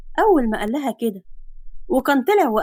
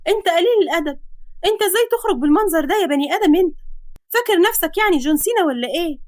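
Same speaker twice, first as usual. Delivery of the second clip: put-on higher, fast scolding girl's voice; 5 semitones higher, faster than usual. Girl covering her eyes, scolding shirtless man. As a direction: scold him, flustered. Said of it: "وصرخت جامد".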